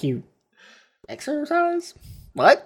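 high mock disbelief; incredulous. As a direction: say it like you can't believe it. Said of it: "They're like".

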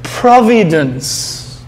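Providence drawn out very slowly and falling; weighty key word. Shown as a demonstration. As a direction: land the word Providence with slow gravity. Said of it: "that P word".

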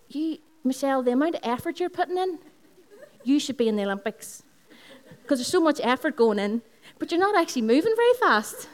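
high, loud teasing husband with a laugh; laughing as she voices the husband's joke. Retold or imitated. Wife mimics her husband laughing at her running, high and loud. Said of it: "He says".

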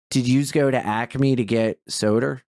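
thick local Delaware vowels; Delaware accent. Shown as a demonstration. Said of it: "Delaware has, like, a fucking shitty accent".

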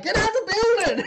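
high, loud acted yell; hammed-up frantic command; shouted order. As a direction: holler it urgently at someone. Man repeats order to woman.

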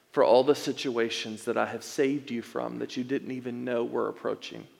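soft, tender questioning; gentle voice of God. Retold or imitated. God speaking to Nick in the basement, soft and tender. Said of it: "what I felt like the Lord told me".

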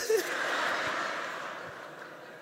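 high burst of laughter; helpless high laugh. Real, not acted. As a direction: crack up at the absurd answer. Laughs at the two-year answer.

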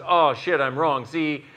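builds from a put-upon whine to a loud high rant; whiny humanoid freakout. Retold or imitated. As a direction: spiral from complaining into outraged yelling. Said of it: "the humanoid in you goes".

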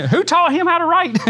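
high, laughing mock jab; playful ribbing, laughing high; laughing mock question. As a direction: tease the writer through laughter. Mocking the letter writer.

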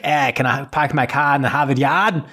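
put-on Boston accent, slightly hammed up; mock Boston accent. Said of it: "he's supposed to be from Boston".

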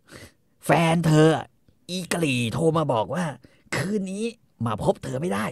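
high, loud jealous rant; wife accusing her husband about his girlfriend; mock ranting wife. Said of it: "คอนนี่ก็บอกว่า".

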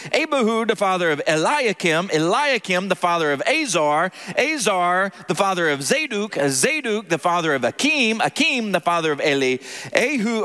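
steady formal scripture reading. Acted. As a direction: read the list like a reverent liturgy. Reads genealogy aloud.

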